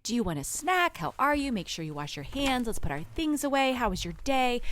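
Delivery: a hint of chirpy Mary Poppins mom; cheery mom. Greeting kids home from school, lightly chirpy. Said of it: "I am just like Mary Poppins".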